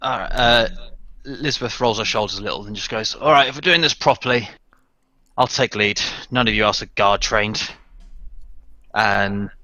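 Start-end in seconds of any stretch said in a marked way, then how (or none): 3.1-7.7 firm, clipped command voice; commanding soldier. Acted. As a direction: take charge like a soldier. Character takes charge in voice.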